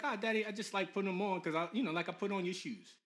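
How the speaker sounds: lightly voiced child explaining himself to Daddy; imagined little son. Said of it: "then he might be like".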